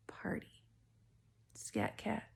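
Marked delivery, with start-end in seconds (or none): 0.1-0.6 psychic whisper. Acted. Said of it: "just got a download".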